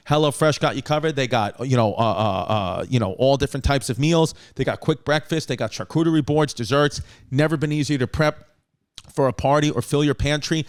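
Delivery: casual podcast sponsor pitch; host's upbeat sponsor read. Real, not acted. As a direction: sell it chattily, spelling out the offer deliberately. Reads sponsor ad.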